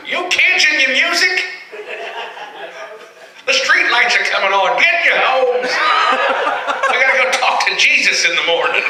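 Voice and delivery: high, laughing, hammed-up old codger; old-timey guy voice. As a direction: do a bad old-timey scold. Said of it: "That's a terrible old-timey guy voice".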